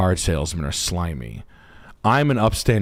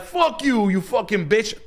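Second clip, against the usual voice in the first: very high mock screech; mock girl cursing; 13 semitones higher, slower than usual. The girl cursing the buddy out. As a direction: curse at him in a high shriek. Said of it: "And she's like".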